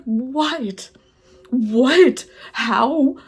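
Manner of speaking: mock bafflement at the friend's tour; incredulous what. Reviewer acting her baffled reaction to the book.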